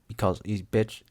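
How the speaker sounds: ordinary talk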